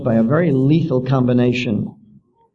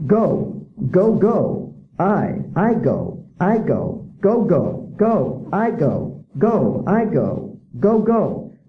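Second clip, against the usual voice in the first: singsong, sing-songy sound-it-out reading, higher; mocking a reader drill; 3 semitones higher, much slower than usual. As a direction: chant it like a dull child's primer. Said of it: "listen to this".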